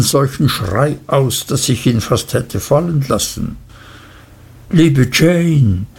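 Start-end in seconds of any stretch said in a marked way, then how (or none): 4.7-5.9 a startled cry of Liebe Jane, slightly raised; mildly startled Liebe Jane, falling at the end; startled outburst. A narrator's reading. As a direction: jump in alarm on Liebe Jane, leaning on liebe. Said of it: "fuhr meine Mutter auf".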